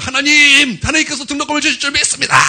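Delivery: high, loud, rushed acted prayer; fervent prayer cry. Student prays at dawn service again, crying out fervently. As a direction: cry out to God at full voice. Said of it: "새벽 예배 또 기도하는 거야".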